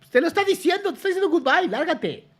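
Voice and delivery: high and loud, shooing him off; loud imitated get-out-of-here; mock loud dismissal. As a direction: throw the goodbye at him. Voicing the message aloud.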